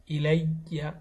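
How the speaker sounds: "ইলাইয়া" with a clearly doubled y; pronounced ya. Shown as a demonstration. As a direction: lean on the y in "ইলাইয়া" before opening to aa. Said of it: "ইয়ার উচ্চারণটা কিন্তু আসবে". ("ইলাইয়া"-তে ইয়া স্পষ্ট, দ্বিত্ব উচ্চারণ)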